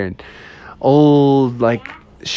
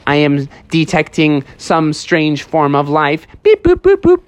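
robot bear; 2 semitones higher than usual. Acted. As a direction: speak evenly word by word like a robot. Robot bear detects life.

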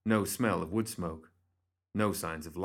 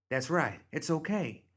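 high-voiced reassurance; reassuring; 8 semitones higher than usual. A narrator's reading. Bernadette reaching out to a small figure, reassuring. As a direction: coax the wary child closer.

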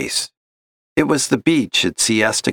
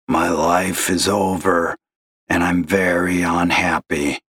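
a despairing caller's gravelly drone; gloomy gravelly caller; 3 semitones lower than usual. Acted. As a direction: sigh it out like a lost man. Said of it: "gravelly voice like that".

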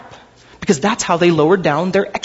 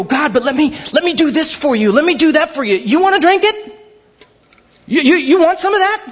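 hammed-up eager believer; mock eager offer; 8 semitones higher than usual. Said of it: "And then we go".

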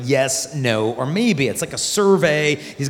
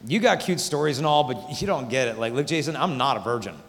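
put-on hurt girl's voice; 3 semitones lower than usual. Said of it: "a girl will think".

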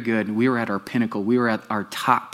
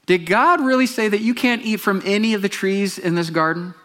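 a sly, higher serpent's voice; 9 semitones higher, 3 dB louder than usual. Acted. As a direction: play the tempting serpent, coaxing Eve. Serpent voiced in retold story.

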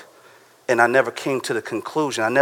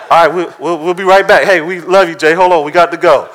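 higher and louder, hurried apologetic exit; hurried excuse; 4 semitones higher, 6 dB louder than usual. Retold or imitated. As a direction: call back while rushing out the door. Congregants excusing themselves to leave.

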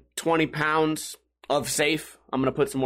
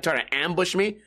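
normal talking voice

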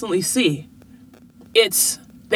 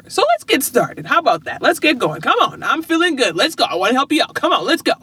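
pep talk; 6 semitones higher, faster than usual. Retold or imitated. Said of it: "I'm like".

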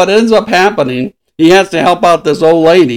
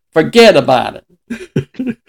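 put-on slow, drawn-out New York mobster accent; slow tough-guy New York mobster accent; slower than usual. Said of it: "just say".

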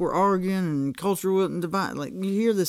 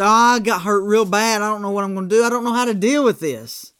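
mock whine; 3 semitones higher, 5 dB louder than usual. Mocking people's complaints.

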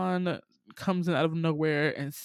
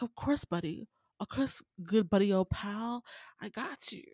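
sly snake; 4 semitones higher than usual. Retold or imitated. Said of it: "And Kaa's like".

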